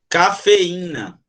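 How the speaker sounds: "Cafeína" slow, ca-fe-í-na; "Cafeína" drawn out, the stressed í in its own syllable; slow syllable demo. Shown as a demonstration. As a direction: stretch "Cafeína" so the í stands apart. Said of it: "Como é que separa a cafeína".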